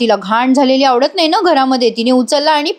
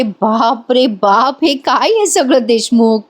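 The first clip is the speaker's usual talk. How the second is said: amazed; slower than usual. Retold or imitated. Wife amazed at baby books.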